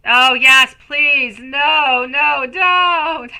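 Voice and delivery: high, loud, laughing no no; laughing protest. Real, not acted. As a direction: squeal it through laughter, playfully. Laughing playful protest at someone.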